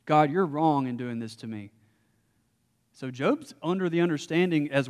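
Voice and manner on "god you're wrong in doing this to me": Job protesting. Retold or imitated. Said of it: "Essentially what Job is saying is".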